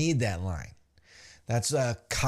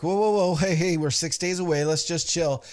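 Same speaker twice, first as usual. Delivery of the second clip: slightly urgent acted peacemaker; lightly voiced plea to calm down; peacemaker breaking up fight; 3 semitones higher than usual. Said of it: "goes to kinda break him up".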